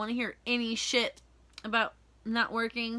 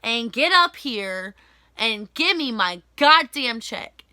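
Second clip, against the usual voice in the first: angry demand; 2 semitones higher, 6 dB louder than usual. Retold or imitated. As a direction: bark it at her, building louder. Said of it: "I was like".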